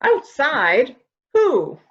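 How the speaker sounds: jolted, alarmed; startled. Acted. Woman hears someone outside, startled questions.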